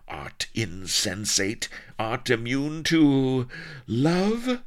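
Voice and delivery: slow build to a high, loud cry; exasperated pirate queen. A narrator's reading. Pirate queen challenging the unmoved man, rising in outrage. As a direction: wail the last word in outraged passion. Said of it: "Sheba ground her teeth".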